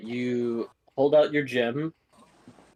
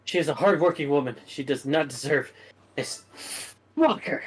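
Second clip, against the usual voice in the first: fuming. Acted. Stacy still raging.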